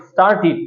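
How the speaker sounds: স্টার্টেড ending in "-tit", with short i; corrected pronunciation. Shown as a demonstration. Teacher models the past tense of start, corrected pronunciation. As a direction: say the last vowel of স্টার্টেড as i, not e. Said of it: "একইভাবে start এর past tense কি হবে?".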